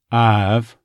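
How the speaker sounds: Texas "I've" with the glide dropped to "Ahv"; Texas accent. Shown as a demonstration. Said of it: "going through word by word".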